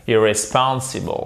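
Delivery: Irresponsible with a lighter stress on IR, main stress on SPON; Irresponsible, two stresses, IR then stronger SPON; secondary stress. Shown as a demonstration. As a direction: model Irresponsible, keeping the opening IR clearly audible. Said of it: "c'est aussi un accent tonique, mais il est secondaire".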